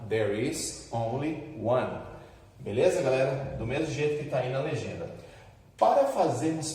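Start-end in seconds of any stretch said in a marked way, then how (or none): 0.1-2.0 there is only one, spelled out slowly; slow model sentence. Shown as a demonstration. Teacher giving students a model answer, slow and clear. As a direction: say it slowly so the class can follow. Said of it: "Aí eu diria".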